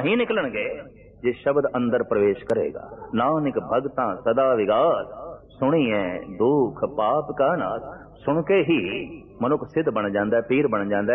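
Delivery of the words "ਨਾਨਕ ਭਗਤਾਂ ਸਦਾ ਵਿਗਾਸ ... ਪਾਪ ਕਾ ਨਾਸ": slow, measured recitation of a verse; scripture recitation. Acted. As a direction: draw out the sacred verse. Quoting the same scripture verse. (Gurbani ਦਾ ਠਹਿਰਾਅ ਵਾਲਾ ਪਾਠ)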